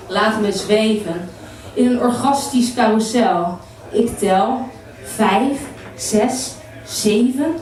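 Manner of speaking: rhythmic spoken word, stretching some phrases; poetry recital. Acted. Poet shares a poem about women's pleasure with men, poetry recital. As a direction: let each short line hang before the next.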